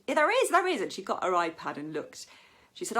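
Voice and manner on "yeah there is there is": high, loud insistence; hammed-up stubborn mum; mock stubborn mother, high and loud; mum insisting.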